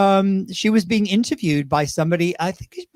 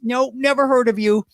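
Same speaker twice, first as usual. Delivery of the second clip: cantankerous; 5 semitones higher than usual. Retold or imitated. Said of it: "she was cantankerous".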